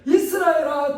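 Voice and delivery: God calling out to Israel; emphatic call. Acted. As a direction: summon the nation. God's call repeated.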